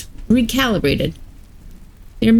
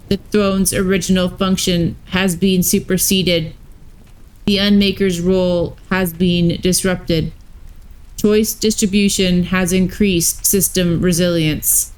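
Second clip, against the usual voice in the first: lightly voiced robot warden; even, mechanical robot delivery. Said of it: "had robot voices".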